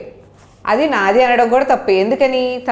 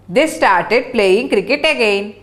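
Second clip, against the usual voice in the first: slow read-aloud; much slower than usual. Shown as a demonstration. Teacher reads English sentence.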